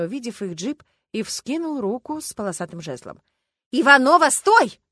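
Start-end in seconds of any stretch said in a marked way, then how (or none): 3.7-4.8 much higher, loud desperate yell. A narrator's reading. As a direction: scream her name to stop the car. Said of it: "заорала Люба".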